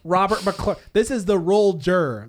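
slow, loud movie-trailer announcer; dramatic announcer. Acted. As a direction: boom it out like a trailer. Dramatic announcer title read.

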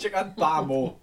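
a quick Geordie echo of Chicken parmo; Geordie accent. Retold or imitated. Friend echoing the Geordie parmo joke, in Geordie. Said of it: "You can't say parmo in any accent other than a Geordie accent".

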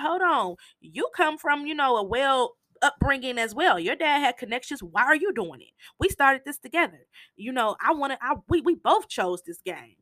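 heated pushback. Retold or imitated. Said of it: "So they have, like, a heated argument".

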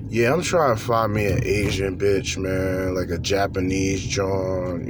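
deep, slow voice of the guy; low, slow put-on voice of a lonely man; vocal cosplay. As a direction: sink the voice low and drag every phrase. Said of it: "I'm cosplaying right now. Vocal cosplay".

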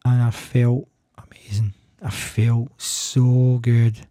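whispered, slow and drawn out; awed whisper. Real, not acted. Recalling the first shower in months, in an awed whisper.

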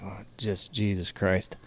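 low, slow, weary sigh of a line; wife at wit's end, low and slow; exasperated mutter. Retold or imitated. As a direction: mumble it like you're at the end of your rope. Exhausted wife quoted.

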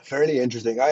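talking between sips of a drink; words around a mouthful of shake. Real, not acted. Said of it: "I'm drinking my protein shake".

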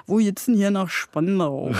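mock Berlin dialect, asking the way; lightly done Berlin street accent, as a lost local. Shown as a demonstration. Demo for the host: a Berliner asking the way in Berlin accent. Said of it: "can you please give us the Berlin accent".

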